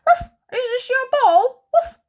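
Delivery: high, loud bouncy puppy; new puppy offers the ball, high and bouncy; playful puppy. Acted. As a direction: bounce in with a friendly bark. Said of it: "another playful puppy bounds over and asks".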